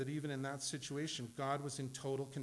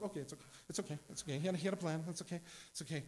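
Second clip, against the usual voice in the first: calming himself; 3 semitones higher, much faster than usual. Retold or imitated. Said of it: "We're freaking out all the time".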